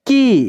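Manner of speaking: के called out as the answer, lifted; answer syllable के. Shown as a demonstration. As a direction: announce के clearly. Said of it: "क्या हो जाएगा दोस्तों?". (उत्तर में के ज़ोर से)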